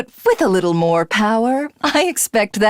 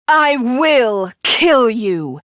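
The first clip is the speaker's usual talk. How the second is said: menacing; slower than usual. Acted. Villain threatens hero.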